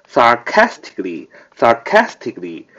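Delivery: sarcastically stressed on CAS; stress on second syllable. Shown as a demonstration. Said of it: "重音在开那儿啊". (sarcastically，重读 cas)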